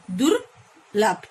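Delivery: दुर्लभ said very slowly as one word; slow joined word. Shown as a demonstration. Teacher joining prefix and word for pupils, very slow. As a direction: draw out दुर्लभ, syllable by syllable. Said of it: "दुर plus लभ".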